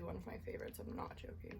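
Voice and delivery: soft unvoiced whisper. Real, not acted. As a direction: whisper it close to the mic. Repeats it, then whispers it.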